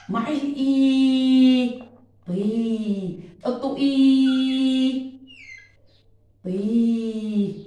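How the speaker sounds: طي drawn out slowly, with a long i; stretched vowel. Shown as a demonstration. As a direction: lengthen the i in طي. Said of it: "أنا بمد".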